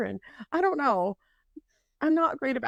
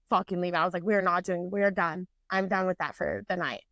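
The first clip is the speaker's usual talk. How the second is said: lower-pitched, final no-nonsense verdict; retold firm refusal; 4 semitones lower than usual. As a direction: shut it down in a low, decided voice. Retold firm refusal after ride.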